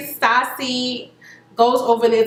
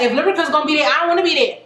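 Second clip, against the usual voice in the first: put-on childish sulk; 4 semitones higher, much faster than usual. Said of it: "On some real kindergarten".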